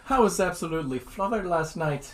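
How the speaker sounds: light Irish lilt on flothered; Irish accent. Pretend. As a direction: say it like a Dublin pub regular. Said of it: "Do this one".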